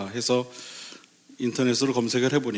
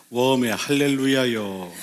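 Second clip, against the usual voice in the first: lightly voiced regional Korean dialect. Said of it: "한쪽에서는".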